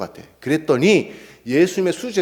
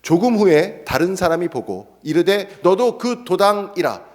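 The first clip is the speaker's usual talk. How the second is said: accuser; 4 semitones higher, slower than usual. Shown as a demonstration. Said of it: "이제 다른 사람이에요".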